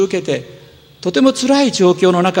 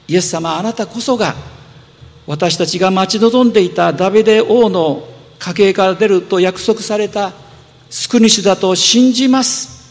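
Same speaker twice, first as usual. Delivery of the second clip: retold crying out; 2 semitones higher than usual. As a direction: cry out your faith to him, rising as you go. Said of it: "と叫んでいるわけです". (高く大きく盛り上がる熱い叫び)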